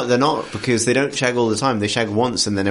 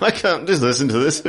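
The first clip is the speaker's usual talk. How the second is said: infomercial; 4 semitones higher than usual. Retold or imitated. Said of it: "like you're in an infomercial".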